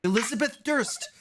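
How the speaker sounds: put-on high, polite little girl greeting strangers. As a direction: pitch up into a small girl's voice. Girl gives full name.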